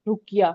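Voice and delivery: रुकिया said as ruk-ya, with no "ai" sound; correct pronunciation. Shown as a demonstration. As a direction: model the word रुकिया as "ruk-iya". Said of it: "ये रुकैया नहीं है".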